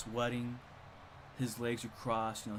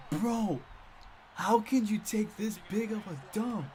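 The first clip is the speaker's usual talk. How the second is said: high, louder mock disbelief; incredulous outburst; 7 semitones higher, 3 dB louder than usual. The speaker reacts to the smelly bathroom, incredulous outburst. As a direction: exclaim it, appalled and amused. Acts out disgusted classmate's reaction.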